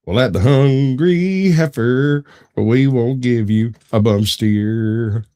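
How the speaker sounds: lightly performed, slow slogan read; quoted movie slogan. Acted. Podcaster quizzing the co-host on a movie, lightly acted quote. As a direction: draw the quoted slogan out slowly. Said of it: "throw you another quote".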